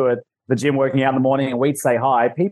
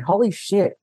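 a retold gasp of wonder, slightly higher; lightly voiced awe; awed exclamation; 5 semitones higher than usual. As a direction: marvel at it, half-imitating yourself. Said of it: "I literally walk around in awe going".

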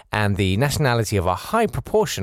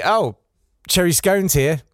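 higher-pitched mock surprise; mock sudden delight; 7 semitones higher, 4 dB louder than usual. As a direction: imitate a sudden change of heart, pitched up. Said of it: "And then suddenly".

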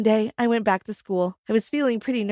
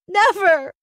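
defiant shout; 8 semitones higher, 5 dB louder than usual. A narrator's reading. Sister defiantly refusing.

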